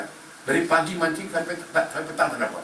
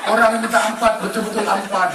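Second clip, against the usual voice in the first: higher, laughing exclaim; amused exclaim; 8 semitones higher than usual. Acted. Preacher delivering the joke's punchline, laughing. Punchline about getting exactly four.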